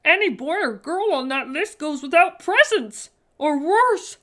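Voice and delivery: shivering elf. A narrator's reading. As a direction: tell it like a ghost story, trembling. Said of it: "he shivered".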